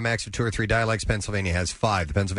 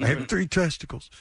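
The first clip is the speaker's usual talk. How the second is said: Pittsburgh accent; 6 semitones higher than usual. Shown as a demonstration. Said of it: "In Pittsburgh, how do they say".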